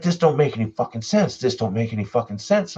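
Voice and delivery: mock panic, insisting on it; retold freak-out. Retelling his friend losing it on the trail, freaking out. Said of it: "he starts freaking out".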